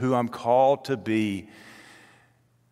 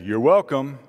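pointed, sarcastic you're welcome, higher and louder; 5 semitones higher, 7 dB louder than usual. Retold or imitated. Mom scolding a kid who forgot thanks, sarcastic. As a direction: rub in the missing thanks with a mock-polite sneer. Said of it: "sarcastically say".

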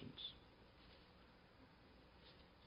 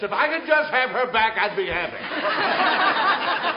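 longing cry; 11 semitones higher, 9 dB louder, slower than usual. Retold or imitated. Preacher acting John's longing.

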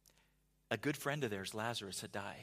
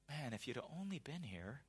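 softer bugged Martha; 6 dB quieter than usual. Retold or imitated. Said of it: "and you're like".

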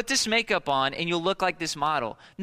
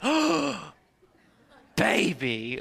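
startled realization; much slower than usual. Retold or imitated. Father realizing his baby fooled him, mock surprised. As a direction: catch on to the baby's trick with mock shock.

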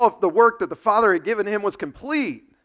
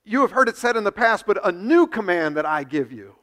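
voicing Jesus; 4 dB louder than usual. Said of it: "Jesus keeps going".

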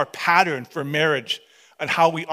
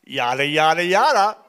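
romantic; 3 dB louder than usual. Pretend. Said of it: "in the most romantic voice you can muster".

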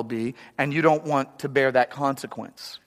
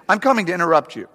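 blunt; 3 dB louder, faster than usual. Retold or imitated. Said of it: "What they actually mean is".

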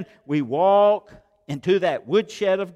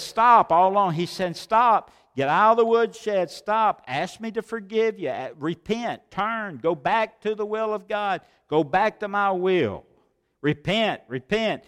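God commanding; 4 semitones higher than usual. Retold or imitated. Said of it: "And God says".

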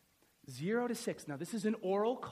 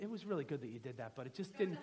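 normal talking voice

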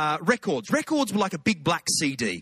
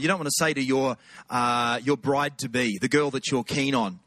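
usual speaking voice

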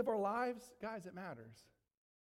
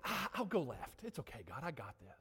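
careless brush-off; 6 semitones lower, 6 dB quieter than usual. Retold or imitated. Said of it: "We say".

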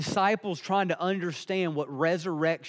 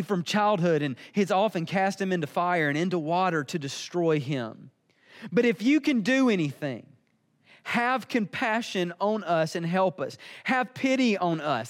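impatient plea, ramping up. Retold or imitated. Desperate father begs Jesus for his son, voice ramping up. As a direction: start near usual pitch, then climb into pleading. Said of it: "hear his voice ramping up here".

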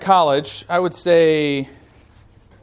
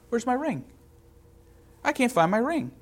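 retold panic; 8 semitones higher, 7 dB quieter than usual. Panic on losing the ring.

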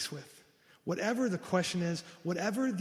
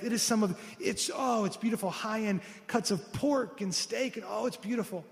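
excited; 5 semitones higher than usual. Retold or imitated. Husband gushing over the meat.

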